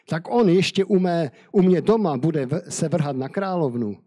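furious king catching Haman at the queen's couch; angry exclamation. Acted. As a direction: burst out at Haman in outrage. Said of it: "zvolal král".

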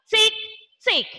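crisp ticking clock sound. Shown as a demonstration. Teacher repeats the clock tick for the class. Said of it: "say the clock".

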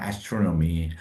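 astronomy said slowly and clearly; astronomy modeled carefully for students; model pronunciation. Shown as a demonstration. Teacher modeling astronomy for the class. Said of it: "두 번째 단어는 astronomy".

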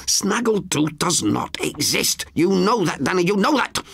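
put-on high elderly woman's voice, alarmed; high, startled sister's voice; Frances, frightened. A narrator's reading. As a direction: gasp it out as the frightened old sister.

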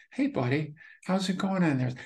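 a light hint of a child's voice, gentle; lightly childlike, friendly self-greeting. Shown as a demonstration. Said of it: "I'll do it in a childlike voice".

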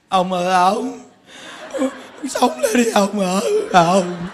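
lightly voiced grieving wife begging him to live; a touch of mourning plea, half-hearted; wife pleading over her dead husband, mock lament; mock wailing widow.

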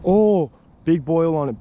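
sudden high, loud exclamation; real excitement at a fish strike; excited. Real, not acted. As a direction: blurt it out thrilled. Fish strikes near surface.

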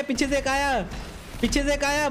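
usual speaking voice

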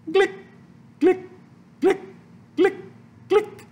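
icing noises. A narrator's reading. Sound effects of spreading icing.

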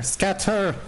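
high-pitched cry to flee; urgent call. Real, not acted. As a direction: send them running with a high yelp. Calls teammates to flee.

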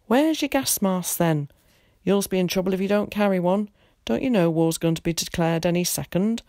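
lightly voiced agitated old man; fussing old warden. Old man in uniform nags Tom about gas masks, fussing.

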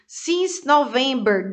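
slow model reading. Shown as a demonstration. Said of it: "teacher slows to model lyric".

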